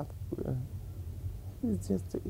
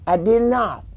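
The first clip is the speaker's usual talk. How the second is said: loud denial; 5 semitones higher, 10 dB louder than usual. Retold or imitated. Father and mother quarrel retold.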